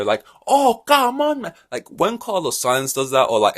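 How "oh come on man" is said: much higher, loud whiny yell; mock radio shout. Driver shouting at team on the radio, high mock complaining yell. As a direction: imitate a driver moaning over team radio. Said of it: "when he was shouting on the radio".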